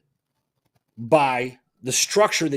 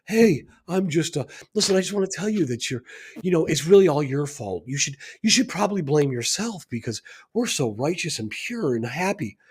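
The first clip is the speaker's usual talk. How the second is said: mock soft talker; 2 semitones higher than usual. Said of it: "they do it in a soft way".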